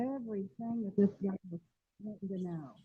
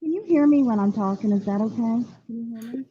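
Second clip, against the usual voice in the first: like talking through a pillow; muffled, as if a finger covers the speaker; 6 dB louder than usual. Real, not acted. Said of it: "Sounds like you're talking through a pillow".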